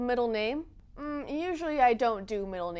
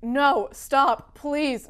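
mock plea; 7 dB louder, much slower than usual. Pleading over movie.

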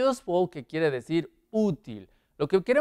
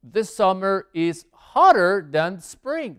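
slow model sentence; 2 semitones higher, 5 dB louder, slower than usual. Shown as a demonstration. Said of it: "teacher models the answer sentence".

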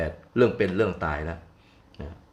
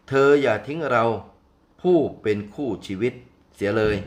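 desperate cry; 2 semitones higher than usual. Acted. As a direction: cry out to his wife for help, panicked. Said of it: "ช้างผู้เคราะห์ร้ายร้องบอกว่า". (ช้างร้องขอให้เมียช่วยอย่างตื่นตระหนก)

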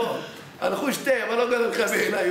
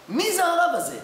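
wondering question; 8 semitones higher than usual. Retold or imitated. To his father-in-law, in amazement. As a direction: ask it in wonder. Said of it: "אמרתי לחמי".

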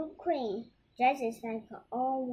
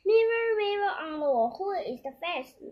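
high, loud call to the magic mirror; queen's incantation; 7 semitones higher, 6 dB louder than usual. Acted. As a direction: invoke the mirror, falling away towards the end. Queen invoking her magic mirror.

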